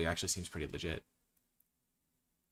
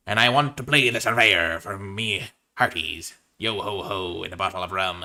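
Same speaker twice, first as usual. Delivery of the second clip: lightly hammed pirate cheer; 5 dB louder than usual. Drafter addressing his hearties in mild pirate voice. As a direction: toast your hearties, half-hearted pirate. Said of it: "talk like a pirate this entire draft".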